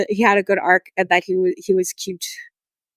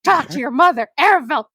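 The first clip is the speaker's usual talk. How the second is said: higher, exasperated urging at the screen; frustrated pleading; 8 semitones higher than usual. Retold or imitated. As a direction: beg the character to talk to his mother. Yelling at game character.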